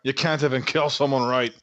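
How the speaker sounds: orc voice. Acted. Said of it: "I like the orc with the action".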